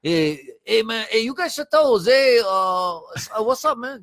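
put-on Hispanic accent. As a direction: play it as a casual Latino guy. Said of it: "now you gotta do a Hispanic accent".

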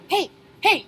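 sharp high yell of hey, hey, cutting in; shout. Retold or imitated. Bartender yelling at a rowdy Marine, a loud high shout. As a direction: bark it at a man a foot taller. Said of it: "And I'm like".

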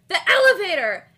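loud, high burst of inspiration; excited exclamation. Retold or imitated. Retelling Carly's epic idea, excited exclamation. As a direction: call it out like a sudden brainwave.

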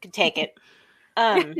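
talking with mouth full; words around a bite of food; chewing while talking. Real, not acted. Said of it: "I'm chewing my quesadilla".

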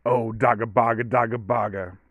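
silly cooing pet nonsense; baby talk. Retold or imitated. Owner scratching the dog, in baby talk. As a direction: fuss over a dog in a put-on voice. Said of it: "when it comes to baby talk with my dog".

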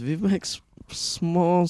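put-on German accent. Friend joining the campfire bit, mock German accent. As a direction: echo the German grandpa voice.

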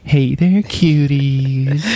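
flirty greeting. Pretend. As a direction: tease them with a come-on.

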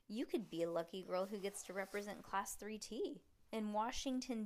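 expressive read-aloud with lively dialogue; story narration. Acted. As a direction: read a chapter book to a child. Reads story aloud to child.

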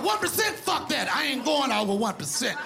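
mock outrage. Complaining about phone battery.

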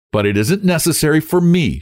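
high-pitched, lightly contemptuous; slight contempt. A narrator's reading. Young woman putting him down with slight contempt. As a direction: dismiss him with a touch of scorn. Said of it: "she said with slight contempt".

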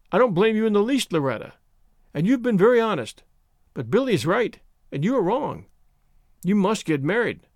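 plain reading voice

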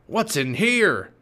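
demanding pirate captain. Acted. Captain searches Jack's backpack.

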